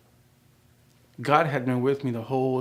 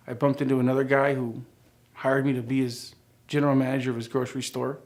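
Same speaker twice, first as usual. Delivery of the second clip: ordinary delivery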